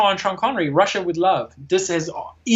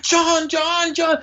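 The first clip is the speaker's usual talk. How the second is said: calling out; 11 semitones higher, much slower than usual. Retold or imitated. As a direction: call repeatedly for help in a high voice. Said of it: "he calls for John".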